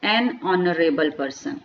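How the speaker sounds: each word laid out slowly; a slow, careful teacher's example; slow model phrase. Shown as a demonstration. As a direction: dictate it slowly to the class. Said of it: "एच साइलेंट है".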